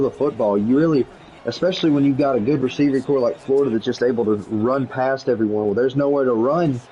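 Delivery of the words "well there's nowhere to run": excited call. Real, not acted. Play-by-play call rising to excited shout.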